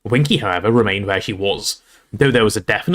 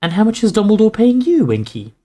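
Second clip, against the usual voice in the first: put-on higher-pitched kindly girl; kindly question; 11 semitones higher, 4 dB louder than usual. A narrator's reading. Hermione asks the crying elf, kindly lifted voice. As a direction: ask with a kind lift in the voice. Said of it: "Hermione asked kindly".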